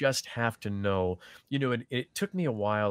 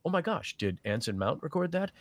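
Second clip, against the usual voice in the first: imitated fan gasping in surprise; a listener amazed at the sound; mock fan surprise; 6 semitones higher than usual. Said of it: "no one's gonna go".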